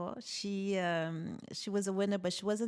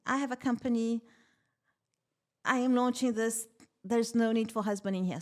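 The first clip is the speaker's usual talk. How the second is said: mock-outraged comeback to the banker; indignant retort; 2 semitones higher, 3 dB louder than usual. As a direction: fire it back, insulted and incredulous.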